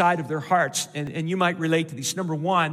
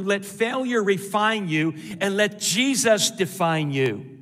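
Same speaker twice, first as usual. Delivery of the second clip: ordinary talk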